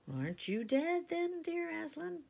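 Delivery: high, wondering question; timid girl. A narrator's reading. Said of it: "said Lucy".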